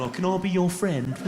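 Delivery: simpering Cockney hard man, mocked; mock needy Cockney; Danny Dyer. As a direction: plead like an eager fan in a put-on London voice. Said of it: "Danny Dyer's going".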